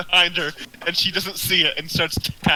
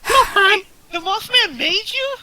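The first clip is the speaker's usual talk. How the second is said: high, disbelieving double-take; surprised; 5 dB louder, slower than usual. Real, not acted. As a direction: ask it in shocked disbelief. Shocked at Drake's answer.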